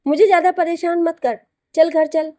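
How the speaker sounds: mother scolding loudly yet worn out; a tired mom calling her son home. A narrator's reading. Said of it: "थकी हुई आवाज़ में बोली".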